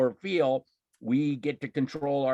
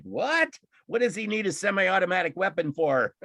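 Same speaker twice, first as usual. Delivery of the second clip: incredulous outrage; 5 semitones higher than usual. Retold or imitated. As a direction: demand it in shock. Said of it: "I'm like".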